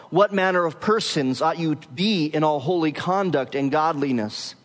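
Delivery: measured public reading of scripture. Acted. Preacher reading the text to the congregation, solemn. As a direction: read the passage with weight to the congregation.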